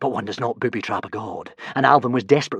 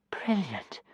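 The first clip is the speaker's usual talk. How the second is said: breathy awed whisper; 5 semitones higher, 10 dB quieter than usual. A narrator's reading. Kamikaze whispering in awe at the flying boy. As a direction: hush it out in wonder. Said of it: "whispered Kamikaze".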